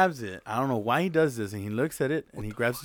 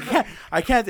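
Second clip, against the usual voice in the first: high, louder mock pleading; acted helpless protest; 10 semitones higher, 6 dB louder, faster than usual. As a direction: plead it high, imitating a panicked drunk. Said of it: "He's like".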